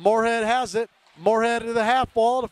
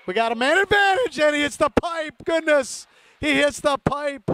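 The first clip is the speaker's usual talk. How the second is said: excited; 4 semitones higher than usual. Real, not acted. Near goal, puck hits the pipe.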